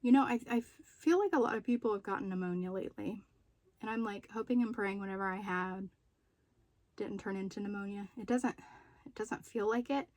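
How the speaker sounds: breathless after being sick; short of breath, talking through it. Real, not acted. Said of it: "I'm feeling a little out of breath".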